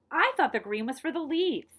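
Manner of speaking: put-on a mild child's protest; upset cry. A narrator's reading. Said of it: "I cried".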